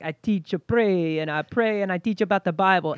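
put-on light Jamaican accent, quick at the end; a hint of a Jamaican Rasta elder. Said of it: "not as huge as your Jamaican accent".

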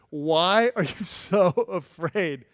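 slow, drawn-out acted puzzlement; imitating a genuinely surprised teacher, unhurried; surprised question. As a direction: stretch the question in mild disbelief. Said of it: "Jesus was genuinely surprised".

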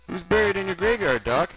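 put-on high, loud child's question; high-voiced little sidekick; Gunga kid character. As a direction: pitch it up like a curious kid. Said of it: "asked Gunga".

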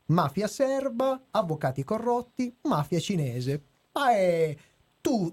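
measured, written-script reading voice; review read. Acted. Reads written review summary.

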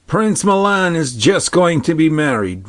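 a hint of an old man telling news. Old man answers princess.

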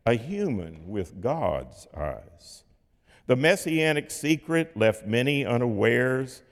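measured, rhythmic poem recital, rhyme gently marked; poem reading. Acted. Preacher reading the closing poem to his congregation, rhythmic and measured.

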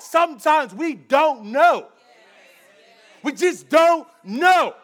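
high, loud-leaning sermon delivery; impassioned preaching. Acted. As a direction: preach it with rising force and punched words. Preaches at full force.

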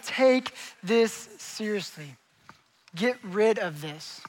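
slow, deliberate, weighted words; solemn command. Acted. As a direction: lay down each word slowly and gravely. Preacher voicing Jesus's solemn command.

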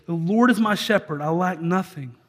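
slow, measured reading of the psalm; scripture reading. Shown as a demonstration. Pastor showing the church how to read Psalm twenty-three, slow and measured. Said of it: "you would read Psalm twenty-three and say".

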